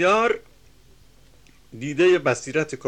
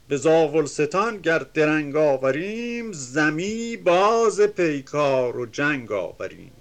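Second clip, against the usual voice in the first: measured, chanting reading of epic verse; reciting classical Persian verse; poem recitation; 3 dB louder, slower than usual. Acted. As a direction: declaim the couplets with rhythm.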